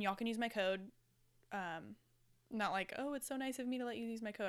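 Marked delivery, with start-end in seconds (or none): 3.0-4.5 fast, airy condescending favor; smug mock generosity. Podcaster mocking her own plug, smug and fast. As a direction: act like letting them use the code is a gift. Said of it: "I don't know why I said it like that".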